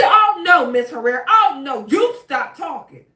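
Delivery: sudden shouted scolding that drops off; a judge snapping at a lawyer mid-sentence, then sharp scolding; judge's sharp outburst. Retold or imitated. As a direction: bark it at the lawyer, out of nowhere. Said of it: "out of no damn where. Do you hear me? Judge Cisco ain't got shit but attitude".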